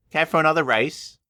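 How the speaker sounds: high cheeky challenge; playful engine voice. Acted. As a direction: tease him with a grin. Thomas teases Bertie.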